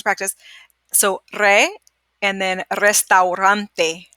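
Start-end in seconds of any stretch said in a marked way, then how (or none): 2.2-4.1 restaurante slow, au as ow; slow Spanish. Shown as a demonstration. Teacher showing the ow sound to students, slowly. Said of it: "an odd sound here".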